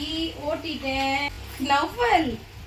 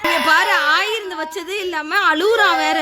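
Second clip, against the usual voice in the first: laughing; 5 dB louder than usual. Real, not acted. Mother laughs at the crying boy.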